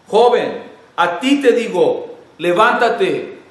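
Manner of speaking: put-on Jesus ordering the dead young man to get up, loud and firm; commanding. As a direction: call the dead boy up with authority.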